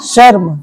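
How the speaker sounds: "शर्म" as one syllable, r into m; light half r. Shown as a demonstration. Teacher models word for class, "शर्म" with light r. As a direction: pass lightly over r in "शर्म". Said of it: "रो का उच्चारण बहुत हल्का".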